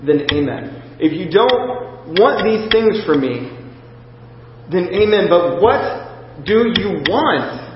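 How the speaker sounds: rising plea, each amen surrendered; pleading prayer, building. Retold or imitated. On his knees in a field, pleading with God in desperate prayer. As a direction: beg God on your knees, slowing at the end. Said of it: "I'm like".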